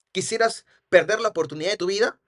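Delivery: "¿Quisieras perder la oportunidad de tu vida?" rising at the end; rhetorical question. Shown as a demonstration. Seller challenges the client, rhetorical "¿Quisieras perder la oportunidad de tu vida?" with final rise. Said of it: "Pregunta retórica".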